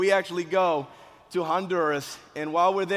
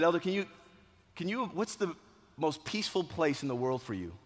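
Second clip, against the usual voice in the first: softer, gentle coaxing; soothing; 6 dB quieter than usual. Retold or imitated. Coach guiding an injured boy to calm, soothing. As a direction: ease him gently towards a calm place.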